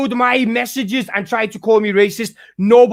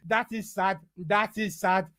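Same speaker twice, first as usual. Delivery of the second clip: mock pity; 2 semitones lower, 12 dB quieter, slower than usual. Mock pity after coo.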